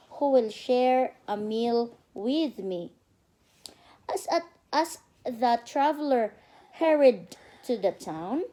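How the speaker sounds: slow, careful storybook reading for a little one; reading to a child. Acted. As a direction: read it out like a bedtime story. Mother reads storybook to child.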